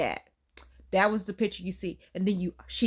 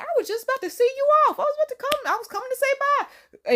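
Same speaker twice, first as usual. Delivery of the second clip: imitated grandma; 3 dB louder, faster than usual. Acting grandma calling after girl.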